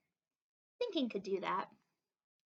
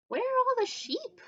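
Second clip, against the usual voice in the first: puzzled; 12 semitones higher, 6 dB louder than usual. Acted. Sheep puzzled by missing sheep.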